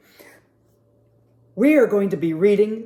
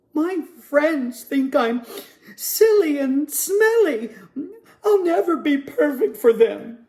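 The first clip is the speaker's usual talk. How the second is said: a lonely penguin feeling left out, gently; sad Percy; 6 semitones higher than usual. Acted. Percy waddles away sadly.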